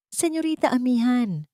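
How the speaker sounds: a high, anxious call across the rain; worried shout. A narrator's reading. Uniformed driver calls to the fainting young heiress, worried shout. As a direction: cry her name out in alarm. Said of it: "Ang sigaw ng lalaki na puno ng pag-aalala".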